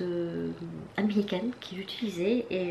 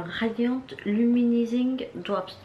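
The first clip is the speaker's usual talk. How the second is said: slow, careful English product name in a French accent; sounding out the English name with a clumsy French accent; 3 semitones higher, 4 dB louder, slower than usual. Real, not acted. Vlogger reading an English product name to viewers, in a slow, clumsy French accent. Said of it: "désolée pour mon accent anglais qui est pourri".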